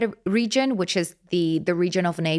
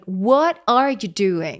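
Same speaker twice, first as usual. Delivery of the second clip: gesture phrase; slower than usual. Shown as a demonstration. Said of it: "It's like".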